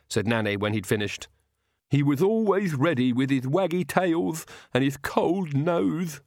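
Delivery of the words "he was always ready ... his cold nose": mild sob in a higher, odd servant voice; understated sobbing Igor; sobbed. A narrator's reading. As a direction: grieve for the dog, choking slightly. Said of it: "Igor sobbed".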